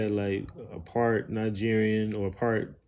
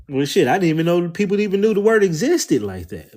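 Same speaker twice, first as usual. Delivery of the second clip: louder, higher, fast astonished quote; amazed disbelief; 8 semitones higher, 10 dB louder, faster than usual. Retold or imitated. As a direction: replay the shock of finding out. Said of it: "And I was like".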